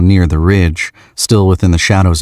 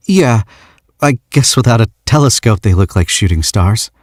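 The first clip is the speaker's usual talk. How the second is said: put-on lightly higher young man's voice; shy young man; 5 semitones higher than usual. George asks the stranger why she came, lightly shy. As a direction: ask with awkward shyness. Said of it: "He clears his throat".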